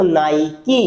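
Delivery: "नाइकी" with the final ee sounded; pronunciation demo. Shown as a demonstration. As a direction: say "नाइकी" ending on a clear kee. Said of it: "वो अपने आप आ रहा है". ("नाइकी" आख़िरी ई बोलकर)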